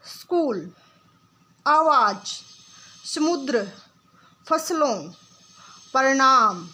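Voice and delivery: each word said alone, clearly and deliberately, with long pauses; slow teacher drill, one word at a time; careful word drill. Shown as a demonstration. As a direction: model every word for the class to repeat. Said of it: "आप मेरे साथ बोलने की कोशिश करेंगे".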